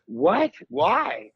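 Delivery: acting out a puzzled, high-pitched reaction; baffled reply. Comic replies to a fan praising an odd show, baffled.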